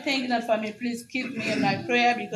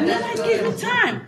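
high, louder triumphant repeat; retold divine pronouncement; 11 semitones higher, 5 dB louder than usual. Retelling the vision to a cheering church, emphatically. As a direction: proclaim it high and loud. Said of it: "I see the same man coming to me".

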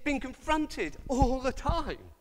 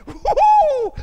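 sarcastic whoop, far higher and louder; mock cheer; 12 dB louder than usual. Preacher mocking a razor ad, whooping sarcastically. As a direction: cheer over a razor in jest.

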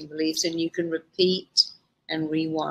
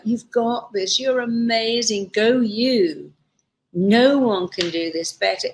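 cheerleader voice; 4 semitones higher than usual. Retold or imitated. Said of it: "say things like".

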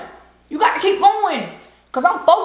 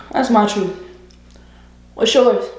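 normal talking voice

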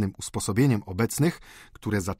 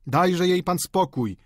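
mild group outcry, higher and drawn out; calling out; 8 semitones higher, slower than usual. A narrator's reading. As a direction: call it out slowly, pitched up. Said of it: "zawołali obecni". (podniesiony, przeciągły okrzyk)

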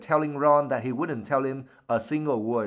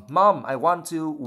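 mild wail; 4 semitones higher, 3 dB louder, much slower than usual. Acted. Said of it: "wailed Ginny".

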